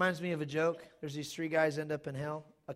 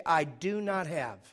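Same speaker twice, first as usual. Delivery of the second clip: slow model line; 4 dB louder, much slower than usual. Shown as a demonstration. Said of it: "Say this with me".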